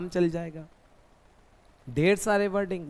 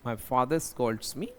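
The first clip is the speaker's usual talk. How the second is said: slow and lower; slow model sentence; 6 semitones lower, 5 dB quieter, much slower than usual. Shown as a demonstration. Teacher models the sentence for students, slow. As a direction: lay the sentence out slowly. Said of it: "मुझे बताना है कि मेरे पापा मुझे डांटते हैं".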